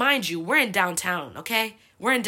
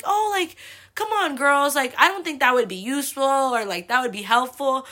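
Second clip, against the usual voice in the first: high, louder, placating objection; imitated moderator; 6 semitones higher, 6 dB louder than usual. Moderator gently correcting the fired-up girls, imitated in a higher voice. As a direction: rein them in like a group leader.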